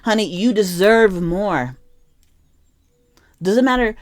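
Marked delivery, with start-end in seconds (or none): 0.0-1.8 emphatic, drawn-out pep talk; insistent encouragement, stretching the key words; gassing someone up. Acted. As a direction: hype them up with slow, weighty emphasis. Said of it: "who needs to be gassed up".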